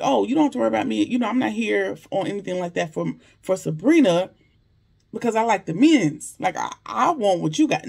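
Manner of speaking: fast, flamboyant, a touch of camp; exaggerated Maurice. Maurice reassuring Bayou he's no rival, quick and flamboyant. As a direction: rattle it off breezily, playing up Maurice. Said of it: "in true, you know, exaggerated Maurice form".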